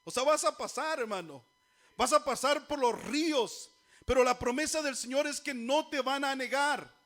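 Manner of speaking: forceful, loud preaching. Real, not acted. Preacher assuring troubled congregation of God's promise, fervent preaching.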